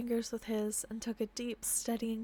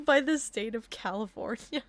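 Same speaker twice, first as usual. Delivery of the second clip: giggling through line; 6 dB louder than usual. Real, not acted.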